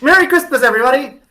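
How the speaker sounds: loud, high, hammed-up holiday greeting; mock festive shout. Host echoing his cohost's joke, loud mock-festive shout. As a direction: boom it like a cheery announcer.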